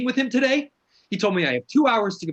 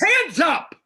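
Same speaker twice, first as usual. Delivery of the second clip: screamed command; 9 semitones higher, 4 dB louder than usual. Acted.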